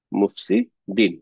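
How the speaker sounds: slow, with মুফসিদিন split before its last syllable; drawn-out answer. Shown as a demonstration. Teacher revealing the answer to learners, drawn out. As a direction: pause inside মুফসিদিন, then land the ending.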